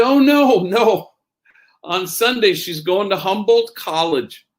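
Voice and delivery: high, worried retold voice; panicky father. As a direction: imitate an anxious dad hurrying to explain. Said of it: "kind of panicky in his voice".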